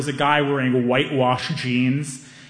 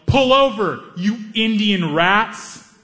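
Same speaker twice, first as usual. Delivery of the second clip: yelled threat; 5 semitones higher, much slower than usual. Retold or imitated. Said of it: "he yelled".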